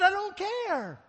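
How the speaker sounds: high, loud flat dismissal; Jesus defiant. Retold or imitated. Jesus dismissing the Pharisees' anger, loud defiant retort. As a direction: shrug them off boldly. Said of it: "And Jesus said".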